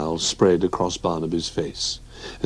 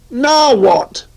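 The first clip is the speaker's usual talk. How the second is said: little bear voice; 6 dB louder than usual. Acted. Barnaby rolled in newspaper.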